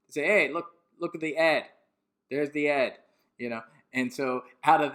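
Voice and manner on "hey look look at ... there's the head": mock working-class British, calling out; lightly hammed-up working-class British accent; bad British accent. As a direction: put on a rough British accent and drop the H. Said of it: "forgive my bad British accent".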